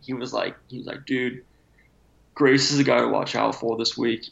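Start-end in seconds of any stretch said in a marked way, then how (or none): 1.1-4.3 put-on casual Aussie accent, lightly done; Australian caddie voice, laid-back. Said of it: "in his little Australian accent".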